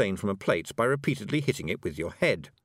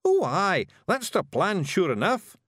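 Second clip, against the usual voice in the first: high, loud cheerful Scots; brightening Feegle; 9 semitones higher, 4 dB louder, slower than usual. A narrator's reading. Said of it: "brightening up".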